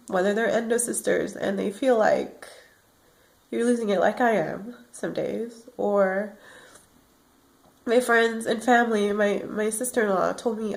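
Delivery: fading, worn-out murmur; exhausted. Real, not acted. Telling viewers how the disease wears her out, exhausted. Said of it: "I get exhausted".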